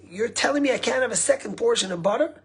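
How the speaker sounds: mock-furious entitled senator; retold fury. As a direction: play the outraged senator demanding his due. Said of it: "like, furious".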